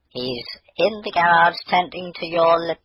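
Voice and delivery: put-on mother answering as the girl runs off; mother's voice, cut off.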